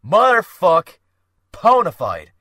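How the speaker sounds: bitter, loud, spat-out "ponified"; a loud, venomous curse. Acted. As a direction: spit the word out in disgust. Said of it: "Dylan spat the word".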